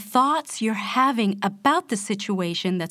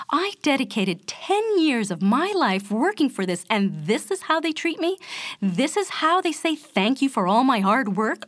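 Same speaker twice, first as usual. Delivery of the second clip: fired man's rant; 2 semitones higher than usual. Retold or imitated. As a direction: vent like a man just fired. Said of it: "perhaps his thinking is something like this".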